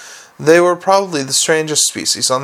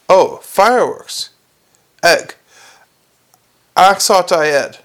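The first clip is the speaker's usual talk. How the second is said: consonants dropped, gaping mouth; open-mouthed gargoyle; 3 semitones higher, slower than usual. Acted. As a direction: speak without closing lips.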